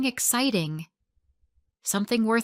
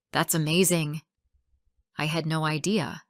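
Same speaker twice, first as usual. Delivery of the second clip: low-pitched, sincere admiration; be gently, sincerely impressed; genuine warmth; 4 semitones lower than usual. Shown as a demonstration. Reply to friend who built a house, genuine and warm. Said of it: "It sounds genuine and warm".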